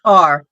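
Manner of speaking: "car" said loudly with a full r; own regional pronunciation. Shown as a demonstration. Woman showing how she says "car", own regional pronunciation. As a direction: demonstrate "car", leaning on the sound. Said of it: "That's how I say it".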